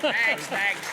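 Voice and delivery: loud, laughing mock delivery of next; his film line. Shown as a demonstration. Actor shows off his one-word film line, laughing and loud. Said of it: "And I say next a lot".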